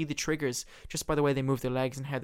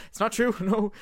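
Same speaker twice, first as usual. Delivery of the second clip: higher, louder laugh through denial; nervous laugh; 8 semitones higher, 6 dB louder than usual. Retold or imitated. Valine denying with a nervous laugh. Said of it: "Valine starts to nervously laugh".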